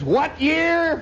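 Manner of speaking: high, loud disbelieving dad; stunned father. Retold or imitated. Father stunned that his son bought a new car, high and loud. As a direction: snap the question up high in disbelief.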